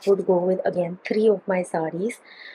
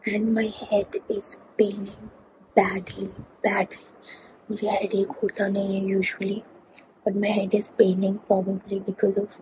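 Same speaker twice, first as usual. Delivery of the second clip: tired; 5 dB quieter than usual. Real, not acted. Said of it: "Sleepy you can see in my eyes".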